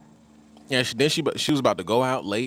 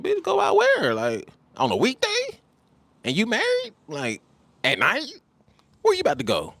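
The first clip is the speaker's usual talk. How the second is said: shrieking disbelief, jumping way up high; incredulous mock outburst; 14 semitones higher than usual. Calling out the married wife for going out, high and scandalised. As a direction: act out scandalised shock at each question.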